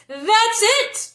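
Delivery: high, loud joyful shout. A narrator's reading. Three friends shouting as the idea lands. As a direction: cheer the idea together. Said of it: "all three shouted".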